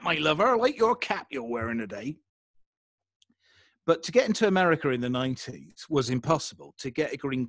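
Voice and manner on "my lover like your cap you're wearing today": mock country English accent; put-on regional English accent. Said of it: "I didn't sound like that".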